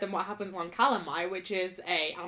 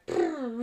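spoken word purr; 3 semitones higher than usual. Pretend. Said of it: "Feyre as a purr is not going like".

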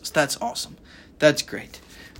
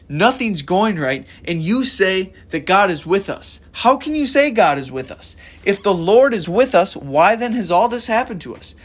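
exasperated outburst; 3 semitones higher than usual. Retold or imitated. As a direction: vent like a man at the end of his rope. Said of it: "Gideon is just going off".

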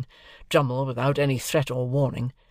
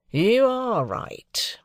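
surly aside; 10 semitones higher, 3 dB louder, much slower than usual. Acted. Drummle's surly reply.

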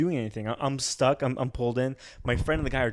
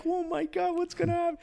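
retold panic; 3 dB quieter than usual. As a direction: act out bracing for disaster. Acts own panic in the story.

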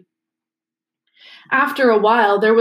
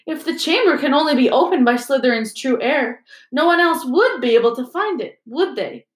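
put-on higher, keen young boy voice; a pupil pressing his point; schoolboy voice; 4 semitones higher, 3 dB louder than usual. Seamus argues.

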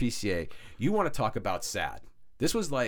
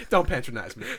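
laughing; 4 dB louder than usual. Real, not acted. Laughing after being teased.

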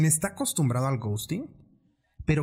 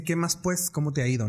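lower tone. Retold or imitated. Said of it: "un tono más bajito".

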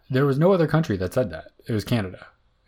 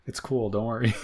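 hammed-up, over-eager assent, pitched up; mock agreement; 5 semitones higher, 4 dB louder than usual. Voicing former Soviet states to co-host, mock reassurance. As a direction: agree too readily, as a joke.

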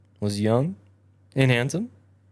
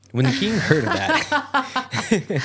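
higher, louder, broken by real laughter; laughing while reading; 7 semitones higher, 4 dB louder, much slower than usual. Real, not acted. Reader resumes the tale, cracking up. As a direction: read on through a real laugh.

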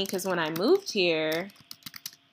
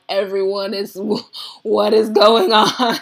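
exasperated; 6 dB louder, slower than usual. Retold or imitated. Retelling her panic at being late.

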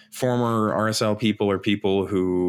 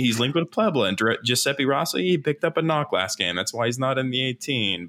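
commentator impression; 4 semitones higher than usual. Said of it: "You nailed both characters completely".

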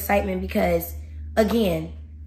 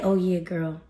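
the devil; 3 semitones lower, 5 dB quieter than usual. Acted. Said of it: "the devil creep in like".

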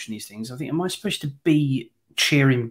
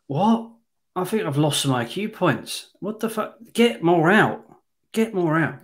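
incredulous, higher-pitched viewer rant; mock outrage; 4 semitones higher than usual. Imagined viewer reacting to the casting, mock outraged. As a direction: act out a baffled, exasperated moviegoer. Acts out baffled 1977 viewer.

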